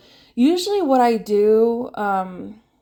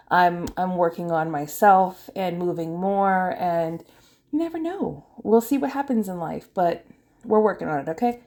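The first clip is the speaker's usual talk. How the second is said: breathless from talking fast; winded, catching breath between phrases. Real, not acted. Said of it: "Sorry, I'm getting out of breath".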